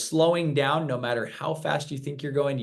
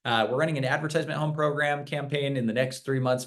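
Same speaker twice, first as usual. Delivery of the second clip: rushed pitch; 3 semitones higher than usual. Retold or imitated. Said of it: "I'm going".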